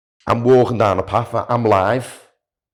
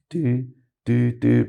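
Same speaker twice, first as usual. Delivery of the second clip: imitated phone ringing; 4 semitones higher, slower than usual. Phone connected to the car starts ringing, imitated ringtone.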